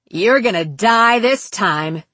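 menacing, emphatic villain; angry threat. Acted. Captor reaching for the knife to kill his captive, menacing anger. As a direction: threaten it with force on each stressed word.

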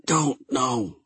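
hoarse croaked answer; croaking. Acted. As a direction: croak it out weakly. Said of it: "Chat croaked".

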